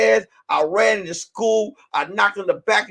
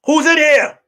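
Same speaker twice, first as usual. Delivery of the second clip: calling out; 5 semitones higher, 4 dB louder than usual. Retold or imitated. Security guard calling out.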